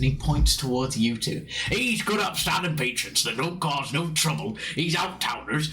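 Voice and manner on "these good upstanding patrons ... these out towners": lightly voiced rustic landlord warning brawlers; scolding landlord. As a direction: threaten them in a touch of farmer accent. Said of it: "And he's like".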